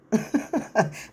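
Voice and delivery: put-on staccato chuckle; imitated laugh. Imitating the boyfriend laughing after his answer, imitated laugh. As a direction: tack on a mock chuckle. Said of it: "Rich is laughing".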